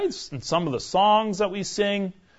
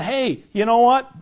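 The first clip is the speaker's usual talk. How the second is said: Paul; 6 semitones higher, 4 dB louder than usual. Retold or imitated. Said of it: "Paul's going".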